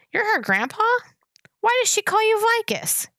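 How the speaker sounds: high-pitched, incredulous questions; startled questioning. A narrator's reading. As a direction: climb high in disbelief. Startled boy questions old man.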